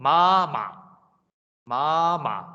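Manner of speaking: first syllable of 媽媽 long and heavy, second short; stress demonstration. Shown as a demonstration. Teacher demonstrating Russian word stress, first 媽 stressed. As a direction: lean hard on the first 媽, drop the second. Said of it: "就要讀重啲嘅".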